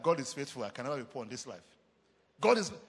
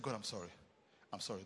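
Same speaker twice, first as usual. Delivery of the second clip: tearful apology; 8 semitones lower, 9 dB quieter, faster than usual. Retold or imitated. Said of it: "I started crying".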